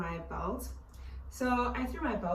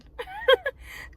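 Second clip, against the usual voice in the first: shaky sigh; 9 dB louder than usual. Real, not acted. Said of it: "I'm gonna cry".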